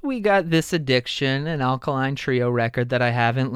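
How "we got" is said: mock excitement. Imitating own first reaction.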